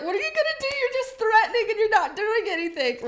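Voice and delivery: high mocking viewer voice, laughing. Viewers mocking her empty threats, high-pitched and laughing. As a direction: squeak it out high as the doubting viewers. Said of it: "Y'all are like".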